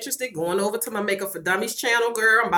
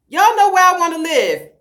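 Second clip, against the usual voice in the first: teasing announcement; 9 semitones higher, 9 dB louder than usual. Real, not acted.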